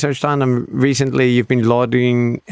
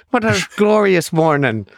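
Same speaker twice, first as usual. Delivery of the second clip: put-on Irish leprechaun accent; 6 semitones higher than usual. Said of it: "little leprechaun Chris".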